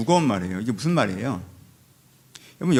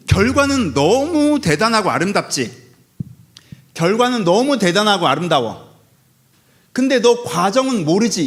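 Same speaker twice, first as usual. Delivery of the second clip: God's voice; 5 semitones higher, 4 dB louder, slower than usual. Acted. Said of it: "이 얘기를 계속 반복하시죠".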